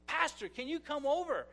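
lightly voiced eager church lady; excited lady caller. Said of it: "this lady who goes".

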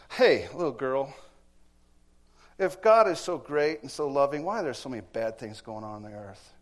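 loud, challenging atheist; huffy shout. Retold or imitated. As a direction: bark the question at the girl. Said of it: "looks and huffs".

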